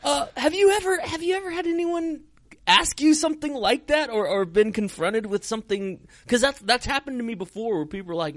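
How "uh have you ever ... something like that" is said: higher, still laughing through the question. Real, not acted. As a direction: ask while still cracking up. Still laughing after the story.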